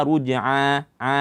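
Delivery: "ruj'a" with the final a pushed into the nose; nasalised ain. Shown as a demonstration. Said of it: "jangan dimasukkan ke dalam hidung".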